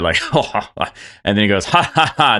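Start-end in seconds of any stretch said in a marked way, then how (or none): 1.6-2.4 high, forced chef's chuckle; higher mock "ha, ha, ha"; laughing it off. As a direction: play a put-on laugh to shrug it off. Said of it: "he kinda laughs it off a little bit".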